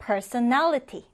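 slow, careful "personality" with the stress clearly marked; stressed model reading. Shown as a demonstration. Teacher reading the word aloud to the class, slow and stressed. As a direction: model "personality" slowly so students hear where the weight falls. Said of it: "이렇게 강세를 두고".

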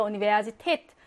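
"우니베아지테트" with stress on last 테트; stress at the end. Shown as a demonstration. Teacher confirming where stress falls, end-stressed "우니베아지테트". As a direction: land on 테트 in "우니베아지테트". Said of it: "강세는 뒤에 있어".

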